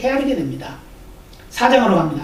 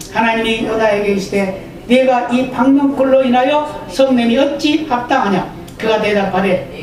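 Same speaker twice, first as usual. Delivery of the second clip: measured, formal Bible reading; scripture reading; slower than usual. Acted. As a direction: read the passage steadily to the congregation. Reads Jonah 4 aloud. (성경 낭독)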